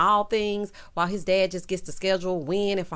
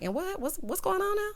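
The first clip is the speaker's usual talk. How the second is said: put-on baby voice; 10 semitones higher, 5 dB quieter than usual. Voicing the baby's confused reaction.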